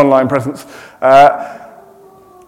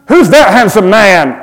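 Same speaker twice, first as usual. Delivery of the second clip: lightly voiced admiring listener; a light mock gasp of admiration; imagined audience cry; 4 semitones higher, 6 dB louder than usual. Pastor voicing the congregation admiring his passport photo, lightly. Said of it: "I hear you cry".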